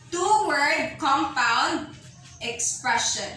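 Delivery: slow, each word set apart; slow emphasis. Shown as a demonstration. Teacher repeating the term slowly so students catch it. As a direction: spell the term out for the class. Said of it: "Naming something by a two-word compound expression".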